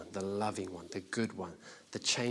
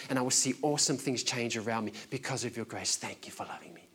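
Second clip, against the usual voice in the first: earnest spoken prayer to the Father; private prayer demo. Shown as a demonstration. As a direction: pray as if alone with God, half-demonstrated. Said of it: "This is an example of what it looks like".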